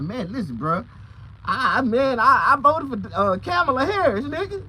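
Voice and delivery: high, loud frantic plea; panicked pleading. Retold or imitated. Pleading with the officer, high and loud. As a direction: beg loudly that you voted right. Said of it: "I'm like".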